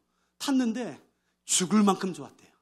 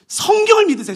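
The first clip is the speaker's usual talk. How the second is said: usual speaking voice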